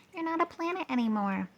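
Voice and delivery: high, teasing rocket voice. A narrator's reading. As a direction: tease him from high up. Speedy teasing Pluto.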